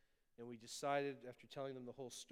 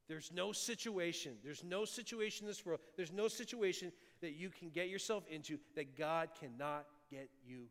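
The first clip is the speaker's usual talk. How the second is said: building preach; 3 semitones higher, 5 dB louder than usual. Real, not acted.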